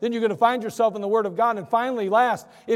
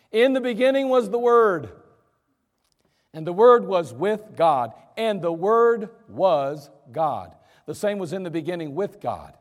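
scripture reading; 3 semitones lower than usual. Acted. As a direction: read the verses as holy words. Preacher reads John chapter one.

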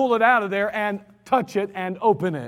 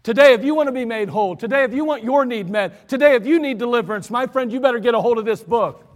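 louder, quicker urgent appeal; building preaching climax; 4 dB louder than usual. Real, not acted. Preacher urging his friends to grab the Bible, rising intensity. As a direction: drive the appeal home, gathering force.

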